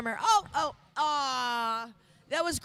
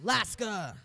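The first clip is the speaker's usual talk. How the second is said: laughing; 4 dB quieter than usual. Real, not acted. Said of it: "do you wanna do the honors".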